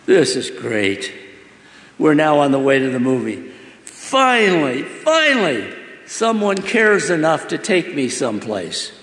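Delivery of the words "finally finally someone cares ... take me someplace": overjoyed relief. Acted. Boy overjoyed someone cares.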